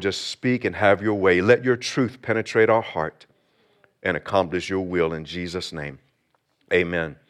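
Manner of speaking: earnest spoken prayer to God. Acted. Pastor prays over congregation.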